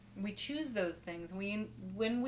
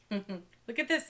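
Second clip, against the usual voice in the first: laughing; 2 semitones higher, 4 dB louder, slower than usual. Real, not acted. Laughing as the cards come out.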